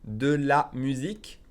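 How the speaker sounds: slow, careful French with "de la" said in full; slow model reading. Shown as a demonstration. French teacher reading a phrase to learners, slowly. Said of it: "Again, slowly".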